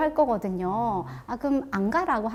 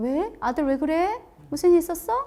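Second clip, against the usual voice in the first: cheerful, light, playful, pitched-up tone; 6 semitones higher than usual. Showing a parent answering a son who threw his bag: light, playful tone. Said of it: "좀 유쾌하게 하는 거예요".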